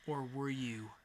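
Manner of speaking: whispered dramatic tease; playful whisper to the girlfriend; mock whisper. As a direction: drop to a hushed whisper. Teasing question to co-host.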